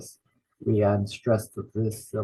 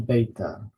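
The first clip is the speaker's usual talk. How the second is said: "beta" stressed as BAY-ta; first-syllable stress. Shown as a demonstration. Teacher introducing the next letter, "beta" as BAY-ta. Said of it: "the stress is the first syllable".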